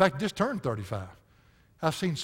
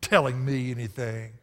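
loud, slow rebel's challenge; angry defiance; 9 dB louder, slower than usual. Retold or imitated. Preacher voicing Korah's rebels defying Moses, loud and slow. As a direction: fling it back at the leaders. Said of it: "the same attitude as all flesh".

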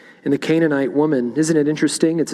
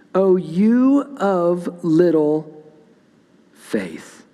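slow, drawn out, fading to a whisper on faith; gentle rebuke; 4 semitones higher, much slower than usual. Acted. Preacher voicing Jesus to his anxious disciples, slow and fading to a whisper. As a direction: let the last word die away into a whisper.

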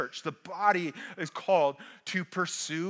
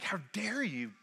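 raised, pressing how dare you; indignant rebuke; 3 semitones higher than usual. Retold or imitated. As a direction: scold the church for going outside it. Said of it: "colloquialism would be like".

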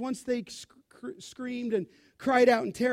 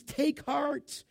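softly spoken, gentle reassurance; tender reassurance; 3 semitones higher, 4 dB quieter, slower than usual. Acted. Savior to frightened disciples rather than rebuking them, tender. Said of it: "ever so tender is the Savior".

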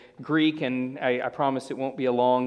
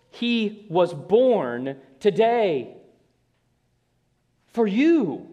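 very slow, higher, "born" and "you" weighted, long pause; slow emphatic stress; 5 semitones higher, 4 dB louder, much slower than usual. Shown as a demonstration. Preacher proclaiming to the congregation, slow stress on born and you. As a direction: land each word heavily, pause before for you. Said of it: "It's shocking".

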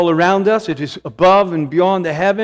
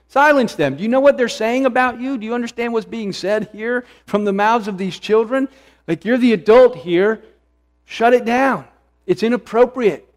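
higher, pressing, indignant challenge; indignant protest; 5 semitones higher than usual. Retold or imitated. Priests confronting Jesus, indignant and raised. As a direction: scold him to shut the children down. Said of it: "They were indignant".

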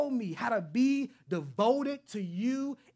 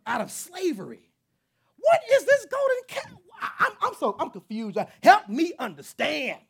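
exasperated Moses; 3 semitones higher than usual. Retold or imitated. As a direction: scold Israel as a fed-up Moses. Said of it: "I just would be like".

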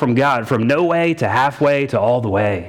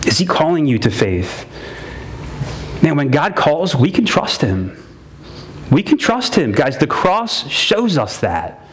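earnest pastor preaching to the congregation; sermon preaching. Acted.

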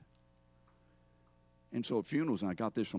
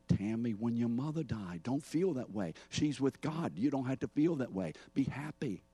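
gentle rebuke; 3 semitones higher than usual. Acted. Believer rebuking Tammy's grief over her mother, mild chiding. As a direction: talk the mourner out of the feeling, pitched up. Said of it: "rebuking how you feel".

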